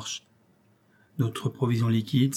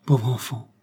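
pitying. A narrator's reading. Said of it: "avec un véritable accent de pitié".

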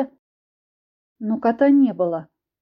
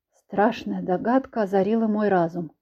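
usual speaking voice

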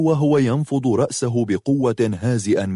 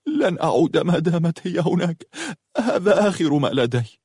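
higher, voice strained with suppressed crying; holding back tears; 8 semitones higher than usual. A narrator's reading. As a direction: choke back tears, a hint of breaking. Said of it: "بنبرة متقطعة من البكاء المكتوم".

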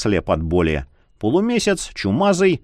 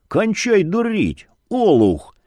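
рявкнул; 7 semitones higher, slower than usual. A narrator's reading. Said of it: "рявкнул полумесяц".

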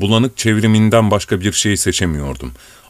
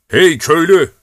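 higher, louder hail across the snow; calling out; 9 semitones higher, 5 dB louder than usual. A narrator's reading. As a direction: call out to the stranger in the storm. Hailing stranger in blizzard. (yüksek sesle seslenme)

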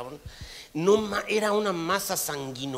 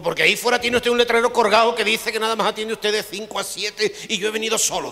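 desperate patient; 6 semitones higher, 8 dB louder than usual. Acted. Patient explains to doctor.

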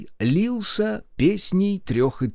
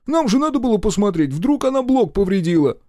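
higher, louder defensive protest; 10 semitones higher, 5 dB louder than usual. Acted. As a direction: justify yourself heatedly. Mechanic arguing back. (оправдываясь)

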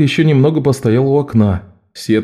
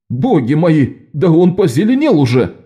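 shocked; 5 semitones higher than usual. Acted. Аньеис видит больного Лока.

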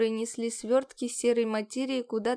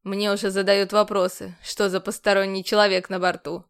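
louder stern rebuke; irritated commander dressing her down; contained shout; 3 semitones lower, 6 dB louder than usual. A narrator's reading. Commander scolding.

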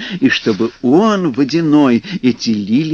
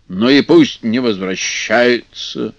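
gruff water spirit; 3 semitones lower, slower than usual. Acted. Vodyanoy dismisses them.

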